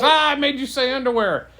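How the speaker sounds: loud high triumphant gotcha; gotcha tease. Acted. Rabbit crowing at the girl over his joke, loud triumphant tease.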